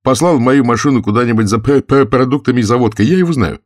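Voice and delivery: high, loud stutterer reporting in; stuttering Gursky. Acted. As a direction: stumble on the P, then push the sentence out.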